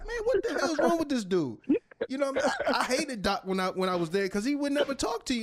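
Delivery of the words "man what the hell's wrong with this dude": laughing disbelief. Retold or imitated. Inner reaction to silent Doc.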